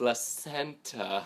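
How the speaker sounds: put-on slow sounding out. Retelling how a woman repeated a word, imitating slow sounding out. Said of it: "she says it, slower".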